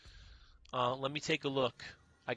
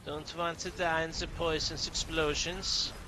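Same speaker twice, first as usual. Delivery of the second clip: put-on German accent. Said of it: "That's my German accent".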